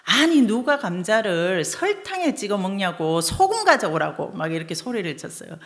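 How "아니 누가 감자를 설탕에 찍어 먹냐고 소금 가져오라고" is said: loud, raised angry demand; husband angrily shouting for the salt; angry yelling husband. Retold or imitated. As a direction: snap at the wife for serving sugar. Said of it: "막 화를 내면서".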